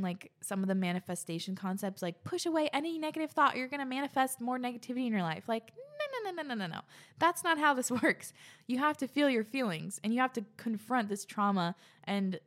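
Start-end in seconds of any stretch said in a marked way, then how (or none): 5.8-6.8 emphatic no. Real, not acted. Emphatic rejection of a bad idea.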